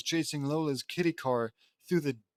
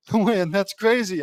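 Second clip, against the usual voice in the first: loud, slow, higher disbelief; shocked retort; 6 semitones higher, 10 dB louder, slower than usual. Acted. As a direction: drag it out, stunned. Narrator's own shocked retort.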